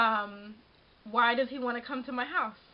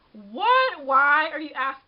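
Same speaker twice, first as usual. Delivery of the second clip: shocked; 2 semitones higher, 6 dB louder, slower than usual. Retold or imitated. Reacting to the guy asking for a kiss, shocked and loud. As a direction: react as if caught off guard.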